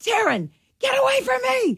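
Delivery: very high, piercing, shrill screeching. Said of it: "She's screeching".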